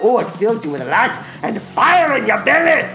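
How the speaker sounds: lightly voiced ogre, bawdy and chuckling; Shrek. Ogre tells the podcast he wants the comet, as Shrek. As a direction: ham it up as a gleeful cartoon ogre. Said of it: "Shrek, once again".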